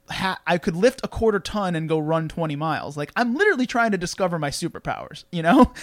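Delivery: ordinary delivery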